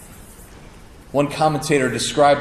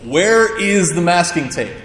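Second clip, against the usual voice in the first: louder and higher, calling back from the closet; 4 semitones higher, 4 dB louder than usual. Retold or imitated. Teenage son calls to mom from the closet, loud call. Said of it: "I call back to my mom".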